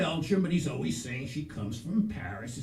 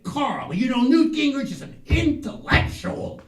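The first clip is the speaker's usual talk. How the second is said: boastful retelling; 8 semitones higher, 10 dB louder than usual. Retold or imitated. Pep retells his own boast.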